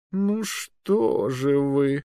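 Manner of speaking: very slow, high reproach; reproachful drawl. Acted. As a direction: drawl it like scolding a child. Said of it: "укоризненно протянул магистр".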